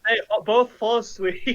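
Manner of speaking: words breaking into laughter; tickled, laugh through the announcement; amused delight. Real, not acted. Game master delighted at sleep spell.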